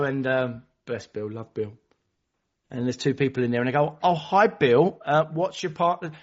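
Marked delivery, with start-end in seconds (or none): 4.0-6.1 higher, louder friendly hello; cheery greeter. Retold or imitated. Members greeting Bill at the meeting, cheery and high. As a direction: greet him brightly.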